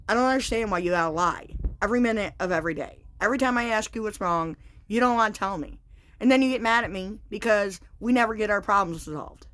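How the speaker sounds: imitating an angry, accusing husband; retold angry rant. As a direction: voice the husband laying into her, fast at first.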